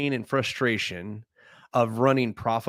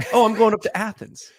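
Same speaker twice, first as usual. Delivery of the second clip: "Athens" said the standard way like a newcomer, a bit higher, a touch mock; outsider's Athens; 8 semitones higher, 5 dB louder than usual. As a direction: imitate an out-of-towner. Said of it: "they know you're not from around here when you say".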